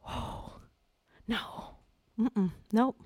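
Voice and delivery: very soft, halting refusal; hushed denial. Retold or imitated. Mother recalling her newborn not breathing, hushed denial. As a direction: barely voice it, as if stunned.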